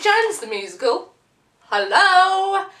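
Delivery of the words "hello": loud high hello, calling out. Acted. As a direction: shout it toward someone far off. Calling out to producers.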